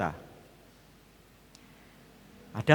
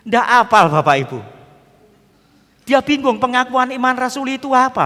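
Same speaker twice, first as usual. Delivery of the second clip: loud punchline; 9 semitones higher, 9 dB louder than usual. Real, not acted. Punchline, thief doesn't know creed.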